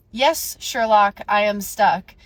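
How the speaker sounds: slow, pointed sarcasm; retold comeback to a stupidly obvious question; sarcastic retort. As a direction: drag it out sarcastically.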